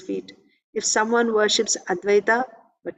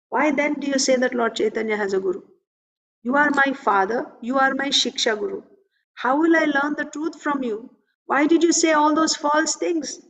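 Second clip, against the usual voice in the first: higher-pitched, indignant questioning; mildly angry reproach; 4 semitones higher than usual. Retold or imitated. Son reproaching his father over false things, mildly angry. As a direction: imitate a son's mild outrage. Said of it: "angrily he said all this".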